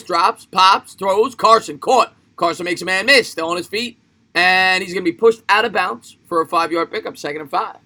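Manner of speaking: brisk sportscaster rhythm, punched verbs; play-by-play call. Pretend. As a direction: call the play live as it unfolds. Mock live game call.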